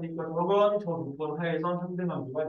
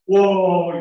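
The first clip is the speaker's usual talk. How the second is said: very loud "와!" of awe; loud amazed wow; 11 dB louder than usual. Retold or imitated. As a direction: shout out "와!" in amazement. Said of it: "막 이러면서". (놀라서 아주 크게 "와!")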